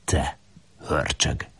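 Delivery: soft playful scolding; mock scolding. Woman scolding Lajos playfully: soft mock scolding. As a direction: tease him like a little beast. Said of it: "Lajost pirongatja".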